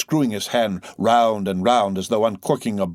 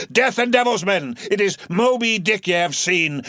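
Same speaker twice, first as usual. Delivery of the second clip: excited exclamation; 11 semitones higher, 5 dB louder than usual. Acted. Captain realizing the whale, excited. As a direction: pitch leaping up on the oath.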